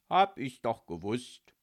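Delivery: loud, smug gotcha. A narrator's reading. Micky teasing the lovesick ghost, smug. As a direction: crow it with self-satisfaction. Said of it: "sagte er suffisant".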